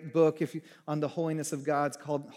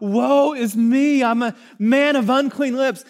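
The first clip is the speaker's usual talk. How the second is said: crying out; 9 semitones higher, 13 dB louder than usual. Retold or imitated. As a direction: cry it out like a man undone. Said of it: "he cries out".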